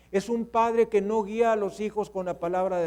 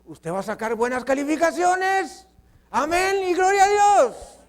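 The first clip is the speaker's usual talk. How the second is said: hearty blessing; 8 semitones higher, 7 dB louder than usual. Acted. Father blessing child's grades.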